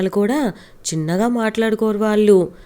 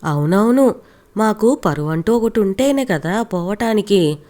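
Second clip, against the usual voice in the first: plain reading voice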